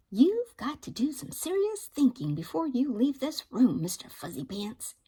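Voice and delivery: a hint of a mother laying down the law; lecturing mother. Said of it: "said his mother".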